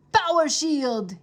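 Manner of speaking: slow, loud spell shout. Acted. Wizard dragon raising his shield against the children, shouted. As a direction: call up the shield with force. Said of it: "he shouted".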